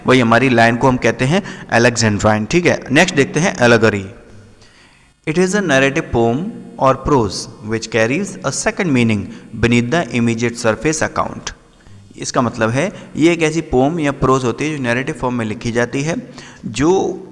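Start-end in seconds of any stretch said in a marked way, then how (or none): 5.3-11.6 slow, deliberate reading with pauses; measured textbook read-out; reading out a definition. Shown as a demonstration. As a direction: read the definition out slowly, phrase by phrase. Reads out a definition.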